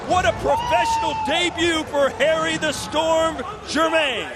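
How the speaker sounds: building to a high, loud shout; excited play-by-play. Real, not acted. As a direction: yell the stoppage call. Commentator calls the knockout live.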